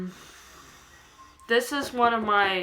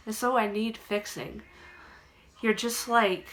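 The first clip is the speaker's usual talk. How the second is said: measured recital of a dark personal poem, with long pauses between lines; poem reading. Acted. Poet sharing own work with channel viewers, understated poem reading. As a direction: read it as verse, line by line, understated.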